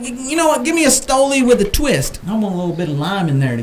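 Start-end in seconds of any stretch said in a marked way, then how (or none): 0.0-2.2 higher, eager mock order; quoting himself. Nervous tourist ordering vodka, higher, eager. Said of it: "I said".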